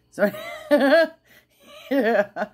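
high loud burst of laughter; real giggle; laughing. Real, not acted. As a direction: laugh it out, then a laughing yeah. Laughing at herself.

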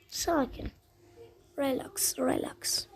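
soft, subdued self-soothing; calming down. Real, not acted. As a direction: talk yourself down quietly. Settles down after loud self-calming.

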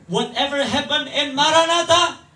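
high, loud drawn-out slogan cry; rousing slogan. Acted. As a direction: proclaim it like a show announcer. Mock slogan called to congregation. (seruan slogan yang lantang)

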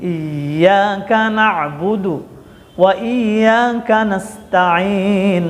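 slow chanted "না'বুদু" with throaty ayn; correct ayn. Shown as a demonstration. Teacher repeating for learners, slow ayn in "না'বুদু" and "নাস্তাইন". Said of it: "এই আইন উচ্চারণ করতে হবে".

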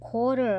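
"quarter" pronounced "korter", without a w; slow demonstrated "quarter", k straight into the vowel; no kw cluster. Shown as a demonstration. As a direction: say "quarter" with a plain k start. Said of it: "เราไม่ได้ออกเสียง ตัวควบกล้ำ".

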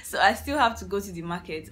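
fast, talking through a laugh. Real, not acted. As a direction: laugh while saying it. Laughing after own remark.

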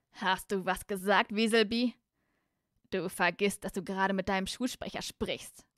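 slow, deliberate, menacing put-down; hissing Slytherin threat. Acted. The Slytherin warns Weaselby about his rank, slow menace. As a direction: draw it out with haughty menace. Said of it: "zischte der Slytherin".

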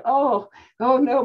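high, slow, loud cry of dismay; panicked servant. Acted. Servant pleading with the prophet, frightened. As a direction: drag out the dread of a frightened servant.

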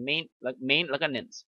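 main and nance said as separate pieces; teacher's syllable-by-syllable model; broken into syllables. Shown as a demonstration. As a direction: break the word into main, then nance. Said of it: "ออกเสียง main แล้ว main แล้วก็ nance".

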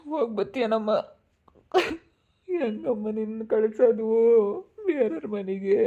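acted weepy lament; tearful parent letting go; crying. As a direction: wail the question through put-on tears. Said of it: "ಅಯ್ಯೋ, ಅಳ್ಬೇಡ್ರಿ".

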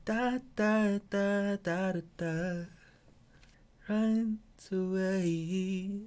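high airy fairy vocal; Pixie Girl voice. Shown as a demonstration. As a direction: sing like a tiny pixie. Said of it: "sound like a Pixie Girl".

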